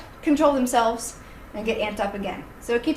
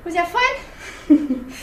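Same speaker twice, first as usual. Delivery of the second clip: laughing; 4 semitones higher, much slower than usual. Real, not acted. Panting after play.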